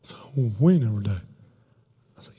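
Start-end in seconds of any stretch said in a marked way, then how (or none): 0.6-1.2 low, run-together imitation of the neighbor; deep, garbled retold answer; neighbor's cryptic mumble. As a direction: drop deep and blur "We never day" into one phrase. Neighbor repeats his misheard answer.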